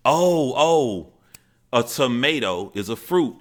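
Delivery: high, loud acted-out blurt; eager child. Confused boy blurting his fact to grandmother and aunts, eagerly. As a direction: imitate a kid bursting to answer.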